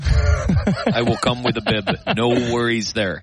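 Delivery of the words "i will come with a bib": laughing repeat. Real, not acted.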